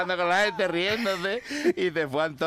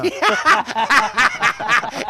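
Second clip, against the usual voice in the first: big burst of laughter; loud laugh; 9 semitones higher, 9 dB louder than usual. Real, not acted. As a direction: explode into a high laugh. Laughs loudly after punchline. (carcajada fuerte)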